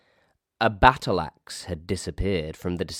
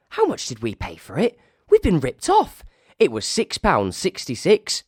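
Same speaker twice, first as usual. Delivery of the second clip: indignant staffer; 5 semitones higher than usual. Acted. Staffer at the secret meeting, high and indignant. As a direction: rant about being ripped off. Another staffer rants about the refund.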